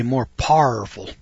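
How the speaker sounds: lightly voiced old stepdaddy; stepdaddy's saying. Recalling his stepdaddy's saying, only lightly voiced. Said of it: "As my old stepdaddy used to say".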